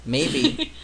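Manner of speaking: ordinary talk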